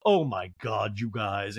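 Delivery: low, mildly exasperated impression; mock exasperation. Housewife fed up with her friends, lightly mimicked exasperation. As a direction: imitate weary exasperation, pitched low. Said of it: "Garcelle's exasperated".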